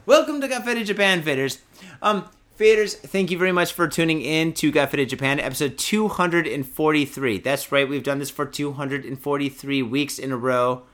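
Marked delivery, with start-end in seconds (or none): 0.1-7.4 show host intro. Acted. Welcoming Faders to the episode, upbeat host intro. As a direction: open the show like an announcer.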